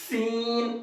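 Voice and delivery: سین said hard and firm, teeth together; hard seen. Shown as a demonstration. Teacher showing students how to say سین hard. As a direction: clip the سین sharply with force. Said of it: "hard کر کے بولنا ہے".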